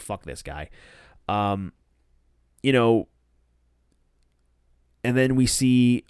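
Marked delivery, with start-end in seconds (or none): 0.0-0.7 pissed off. Retold or imitated. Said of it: "Anna Jay looking all pissed off".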